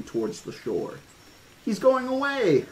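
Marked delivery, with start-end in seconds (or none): 1.6-2.7 put-on very high gleeful girl's squeal; delighted kid, voice shooting up. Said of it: "Lex squealed".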